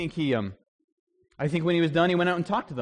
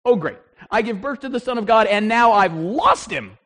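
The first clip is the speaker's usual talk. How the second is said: a mother half-joking in alarm; mock panic; 5 semitones higher, 7 dB louder than usual. Mary realizing she lost Jesus, mock panic.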